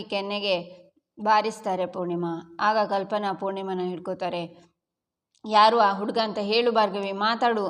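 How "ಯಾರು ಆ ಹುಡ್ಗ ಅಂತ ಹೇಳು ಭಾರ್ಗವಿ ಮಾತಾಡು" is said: louder, insistent order to speak; mother forcing an answer from her daughter; louder furious mother's order; angry demand. Acted. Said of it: "ಅಂತಾರೆ ಪೂರ್ಣಿಮಾ".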